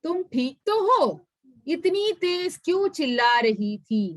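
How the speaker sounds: a lightly voiced worried little friend; Chunmun's voice. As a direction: ask the ant gently if it is alright. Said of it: "ചുൻമുൻ ने पूछा".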